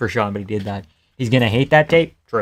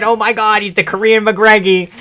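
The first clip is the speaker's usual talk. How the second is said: mock hype; 8 semitones higher, 5 dB louder than usual. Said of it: "And everybody said".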